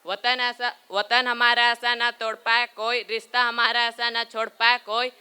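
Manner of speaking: steady, even-pitched patriotic recital; Hindi poem recitation. Acted. Pupil reciting a Hindi Independence Day poem, steadily declaimed. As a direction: declaim it line by line in a level chant-like tone. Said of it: "I am going to recite a Hindi poem".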